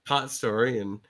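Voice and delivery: raspy smoker's cough voice; hoarse and stuffy from a cold; sick with a cold. Real, not acted. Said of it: "inability to breathe properly right now with my cold".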